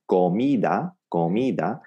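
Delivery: "comida" with a full o in co; Spanish pronunciation. Shown as a demonstration. Teacher introduces the word for food, "comida" with clear Spanish vowels. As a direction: say "comida" as ko-MEE-da, rising at the end. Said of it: "the word for food".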